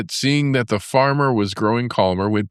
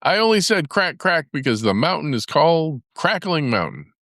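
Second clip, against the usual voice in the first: high, breezy brush-off; sly rabbit; 7 semitones higher than usual. A narrator's reading. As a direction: wave it away lightly, voiced high. Rabbit's excuse.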